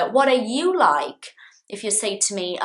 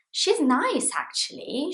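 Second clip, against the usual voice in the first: bright model answer; 8 semitones higher than usual. Shown as a demonstration. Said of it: "So you would say".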